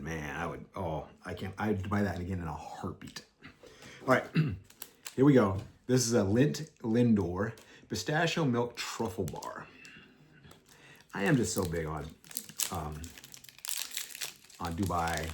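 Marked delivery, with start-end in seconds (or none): 5.9-9.7 whispering. Real, not acted. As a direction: breathe the name out slowly. Whispered product name reveal.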